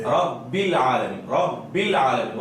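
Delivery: slow, measured "رب العالمین", clean ba; reciter's correct reading. Shown as a demonstration. Teacher quoting how a qari reads, slow careful recitation. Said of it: "قاری کیا پڑھ رہا ہے؟".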